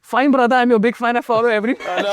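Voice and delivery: amused imitation of a fan; laughing fan quote. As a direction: mimic the sudden fan through a giggle. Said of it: "And he said".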